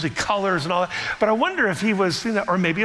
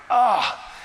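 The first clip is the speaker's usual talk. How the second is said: sudden loud frustrated "Ah"; frustrated groan; 6 semitones higher, 3 dB louder than usual. Retold or imitated. Preacher voicing a frustrated king, a loud fed-up "Ah". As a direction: blurt out the frustration, higher and louder. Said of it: "just feeling like".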